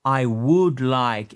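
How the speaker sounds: slow I would like, would with no L sound; teacher slowing down would; silent L in would. Shown as a demonstration. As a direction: stretch out would, keep the L silent. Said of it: "le L dans would ne se prononce pas".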